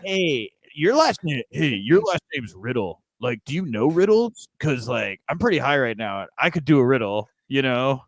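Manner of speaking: lightly put-on stoned bro. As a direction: play a spaced-out pal pitching a silly idea. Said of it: "that's my R K Bro impression".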